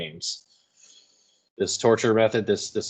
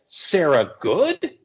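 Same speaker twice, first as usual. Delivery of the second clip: startled question; 7 semitones higher, 4 dB louder, much slower than usual. Acted. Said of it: "So Paris says".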